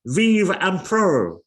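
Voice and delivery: loud, high battle cry; ringing dying cheer; shout. A narrator's reading. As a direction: cry it out with the last breath.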